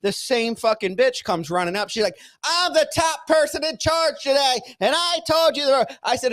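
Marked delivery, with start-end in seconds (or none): 2.4-5.9 high-pitched imitation of an overbearing woman; bossy mock outrage. Woman in charge confronting a rehab patient, mock indignant. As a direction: pitch it way up, pulling rank.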